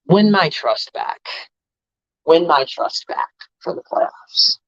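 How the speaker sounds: slow, pressing on "win"; slow demand. Real, not acted. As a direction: demand it slowly, one word at a time. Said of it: "challenging the team".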